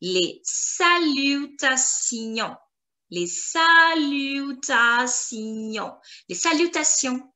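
very slow, each syllable spaced; slow repeat-after-me. Shown as a demonstration. Teacher slowly modelling for students to repeat. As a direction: pace it for students to copy. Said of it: "You can repeat after me".

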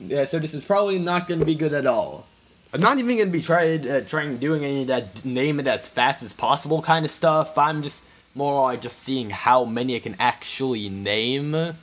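hoarse, raspy voice; smoker's rasp. Real, not acted. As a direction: talk through a rough, raspy throat. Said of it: "I sound like I've been smoking".

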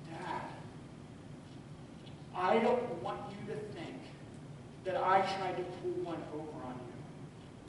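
gently voicing a sorry boy; soft tearful plea. Son explaining the bill mix-up to his dad, hushed. Son's apology continued.

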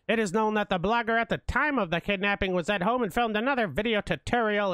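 formal newsreader voice, even and clipped; mock news report. Narrating the blogger's kidnapping as a news anchor.

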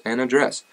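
"address" as AD-dress; AD-dress variant. Shown as a demonstration. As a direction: open "address" with a clear a as in cat. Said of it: "however you would like me to say that".

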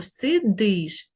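"сидиш" with a clear stressed и. Shown as a demonstration. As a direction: stress the ending of "сидиш", sounding и distinctly. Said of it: "чітко зву-, звук «и»".

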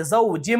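زوجم closing on a hummed m; tanween changed to meem. Shown as a demonstration. Teacher applying the rule, زوجم with meem sound. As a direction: lips shut on a held m ending زوجم. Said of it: "میم سے بدل کر پڑھیں گے".

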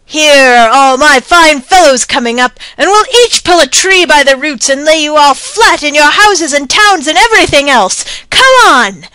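high, loud battle taunts; shouting. A narrator's reading. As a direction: bellow challenges at the fallen officer. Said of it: "to shout".

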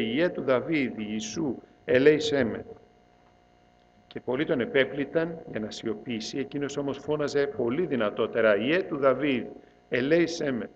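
steady, measured Gospel reading; scripture reading. Acted. Priest reads Mark's Gospel to the congregation, solemn reading. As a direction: read the passage out like a liturgical reading.

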